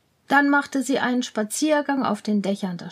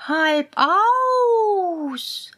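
higher, dry cat voice; offhand cat; 7 semitones higher, 4 dB louder than usual. Acted. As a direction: say it flatly like a sly cat. Cat answers.

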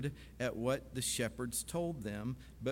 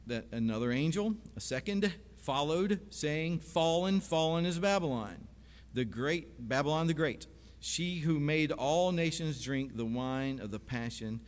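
raised, declaiming Bible reading; emphatic scripture reading; 3 semitones higher, 3 dB louder than usual. Real, not acted. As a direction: proclaim the verse to the congregation. Preacher reads scripture aloud.

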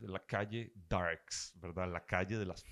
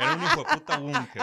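exclamación; 9 dB louder than usual. Real, not acted. Exclamación indignada y divertida.

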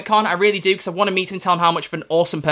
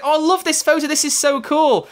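imitating Catherine; 10 semitones higher than usual. Actress admiring the fan's photo, high mock-gushing. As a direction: coo over the photo in her voice. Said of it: "She's like".

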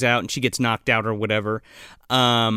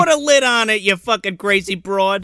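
put-on cranky old patient; 6 semitones higher, 3 dB louder than usual. Roommate character yelling.

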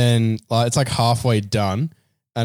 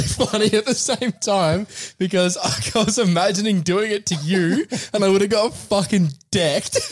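usual speaking voice

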